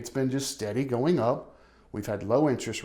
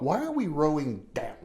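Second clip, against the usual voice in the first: puzzled thought; 4 semitones higher than usual. Retold or imitated. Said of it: "I thought".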